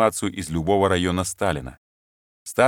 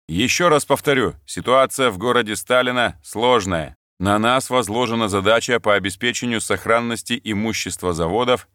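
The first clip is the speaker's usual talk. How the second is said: stern officer. Acted. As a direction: address the ranks with authority. Lieutenant briefing soldiers in formation. (строгий голос командира)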